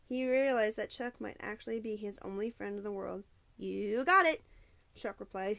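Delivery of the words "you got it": loud, drawn-out eager reply; chipper. A narrator's reading. Chuck agreeing to help his friend, chipper and eager. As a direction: sound thrilled to be needed. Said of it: "his voice chipper, as if thrilled to be needed".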